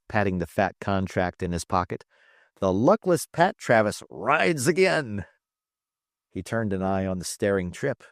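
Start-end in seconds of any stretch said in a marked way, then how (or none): 2.6-5.2 chuckling. Acted. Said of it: "he chuckled".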